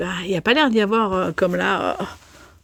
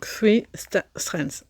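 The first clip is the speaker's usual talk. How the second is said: halting English in a thick French accent; 4 dB quieter, much slower than usual. Real, not acted. Knitting vlogger stumbling over pattern's English term, French accent. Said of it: "J'ai un accent an-, anglais déplorable".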